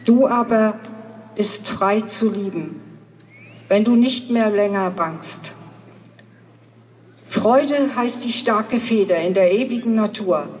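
measured poem reading with deliberate pauses; poem recitation. Acted. Speaker reciting a poem to a gathering in Greifswald, declaimed in measured phrases. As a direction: recite it solemnly, phrase by phrase, stressing key words.

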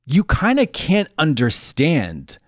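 ordinary delivery

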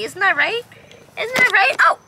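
high, rising pet voice. Real, not acted. Keeper cooing to young female serval, high pet voice. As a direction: coo the question to the cat.

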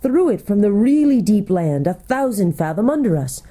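lively, swooping creature tale-teller; lightly voiced gnome storyteller. Golg tells the travelers what the gnomes did, as eager storyteller. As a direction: tell it with relish, in a light gnome character.

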